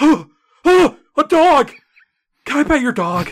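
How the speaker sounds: put-on overexcited gushing, very high and swooping. Imitating people who freak out when they see a dog: imitating someone freaking out over a dog. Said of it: "people that freak the fuck out when they see a dog".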